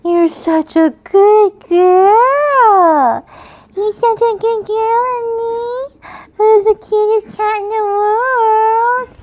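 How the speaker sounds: high, slow, loud cooing; high pet talk. Real, not acted. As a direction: gush slowly up high to the cat. Praising her cat.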